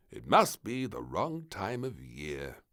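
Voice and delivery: slow, a touch of sadness; mildly sad. Acted. The king at the empty beach, mildly sad. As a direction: say it slowly, let down. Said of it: "said the king sadly".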